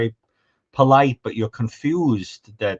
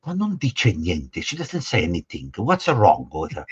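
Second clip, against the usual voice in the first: Italian relatives impression; 3 semitones lower than usual. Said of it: "they all sound like that".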